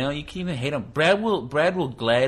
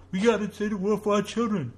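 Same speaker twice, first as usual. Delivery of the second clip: mock earnest parent; 9 semitones higher than usual.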